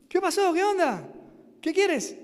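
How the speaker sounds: the translator asks the sick rafter what he needs, in a lightly Mexican voice. Retold or imitated. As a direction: lightly play the Mexican translator asking what's up. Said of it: "El traductor era un muchacho mexicano".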